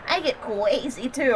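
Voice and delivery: soft, slow mock baby talk; imitating a friend's cutesy voice; put-on girly voice. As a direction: say "crazy" as a lisped "cwazy". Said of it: "trying to give me an example".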